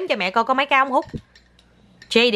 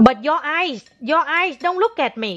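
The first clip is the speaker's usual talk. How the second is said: gentle high coaxing; 6 semitones higher, slower than usual. Real, not acted. Mẹ nhắc con nhìn.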